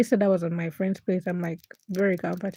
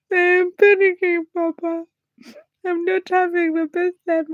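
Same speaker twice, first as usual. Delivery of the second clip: mock panicking; 9 semitones higher, 8 dB louder than usual. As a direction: act out your own panic, hammed-up. Retelling her own panic to papa.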